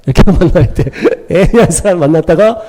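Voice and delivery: amused, laughing as the words come out. Real, not acted. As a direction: talk through a chuckle. Preacher laughs while talking.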